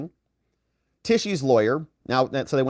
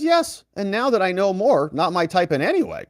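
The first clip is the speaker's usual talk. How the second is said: imitating Trump; 7 semitones higher than usual. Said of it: "He says".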